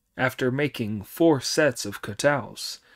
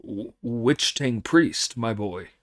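shocked stammer. Acted. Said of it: "Monkey looked shocked and asked".

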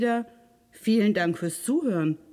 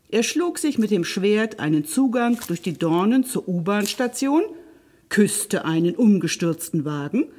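lively, expressive fairy-tale narration; storyteller for children, varied pitch; story narration; 5 dB louder than usual. A narrator's reading. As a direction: read a fairy tale aloud with animated emphasis.

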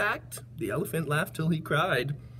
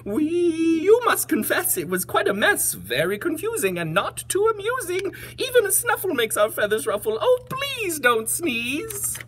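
pleading storybook animal; 12 semitones higher than usual. Acted. Animals beg the elephant not to sneeze, high pleading voice. Animal character's plea in rhyme.

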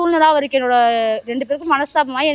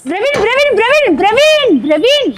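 calling out loud; 5 semitones higher, 4 dB louder, slower than usual. Acted. Woman calling after the fleeing anchor, loud and high. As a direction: call his name higher and louder, again and again.

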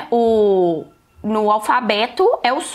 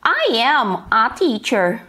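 slow, breathy, spelled-out model read; slow model sentence; slower than usual. Shown as a demonstration. Teacher reading an example sentence to students, slowly. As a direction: say each word slowly for the class. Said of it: "Let's see the examples".

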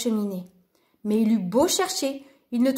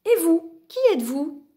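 higher, emphatic lady's voice; lady's question; 6 semitones higher, 3 dB louder than usual. A narrator's reading. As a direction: ask it as the masked lady, lightly voiced. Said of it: "dit-elle en soulevant son masque".

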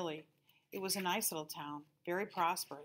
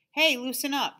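much higher, louder friendly nudge; easygoing intercom guy; 8 semitones higher, 11 dB louder than usual. A narrator's reading. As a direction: coax him to relax. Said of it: "the voice said".

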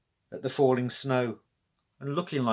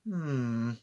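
thoughtful hum; 5 dB quieter than usual. A narrator's reading. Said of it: "said Granny Louise thoughtfully".

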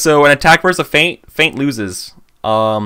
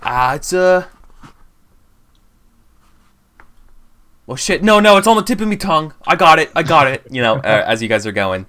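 put-on Cockney accent. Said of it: "my horrible Cockney accent".

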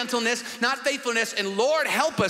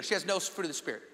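fast, much softer aside with "no" still marked; quick quiet repeat; 4 semitones lower, 8 dB quieter, much faster than usual. Shown as a demonstration. Preacher repeating the point softly to the church. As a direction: toss "She has no fruit" off low and quick. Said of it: "I had to say fruit of the Spirit".

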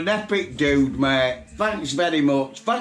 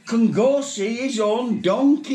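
much higher and louder, thrilled; excited; 10 semitones higher, 4 dB louder than usual. Real, not acted. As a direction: announce it with delight. Reveals the donkey adoption.

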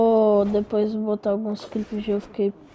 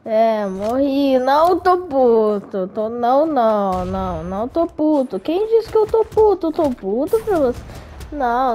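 sarcastic denial; 2 semitones higher than usual. Pretend. Sarcastic denial after losing.

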